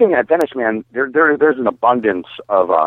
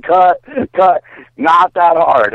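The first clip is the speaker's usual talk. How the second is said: high, raised-voice call to halt; mock urgent yell, pitched up; retold alarmed call; 8 semitones higher, 5 dB louder, much slower than usual. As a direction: imitate a crew calling out. Retold film crew stopping the take.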